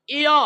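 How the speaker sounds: ইয় said as a clear i-yo; pronunciation demo. Shown as a demonstration. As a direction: model ইয় distinctly, i gliding into yo. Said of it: "জপলার উচ্চারণ হবে".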